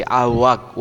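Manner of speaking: walk said as wak, with no l sound; silent l in walk. Shown as a demonstration. Teacher showing pupils the silent l, walk said as wak. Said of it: "ওয়াক শব্দের আর উচ্চারিত হয় না".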